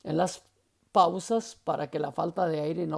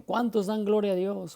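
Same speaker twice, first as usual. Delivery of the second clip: raised, higher preacher's call to the congregation; preacher's catchphrase; 4 semitones higher, 4 dB louder than usual. Retold or imitated. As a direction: call out a stock pulpit question. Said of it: "utilizamos mucho".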